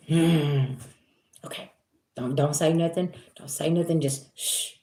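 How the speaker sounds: quiet murmur trailing into a whispered shh; hushed self-talk. Retold or imitated. Telling herself to stay quiet, hushed murmur. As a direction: talk yourself into silence. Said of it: "I'm like".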